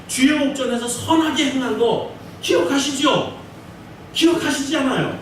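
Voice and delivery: earnest plea to God, lightly acted; pleading prayer. (히스기야의 간절한 기도)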